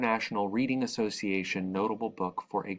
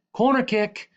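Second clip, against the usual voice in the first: loud, high excited cheer; 13 semitones higher, 7 dB louder than usual. A narrator's reading. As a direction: shout it in triumph. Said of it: "Jamal and I cheer".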